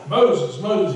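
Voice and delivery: loud call. Acted. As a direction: raise the voice on Moses. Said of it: "he said it loudly".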